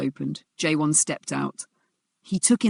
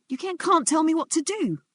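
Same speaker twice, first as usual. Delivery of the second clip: wavering bravado; 13 semitones higher than usual. Acted. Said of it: "his voice wavered".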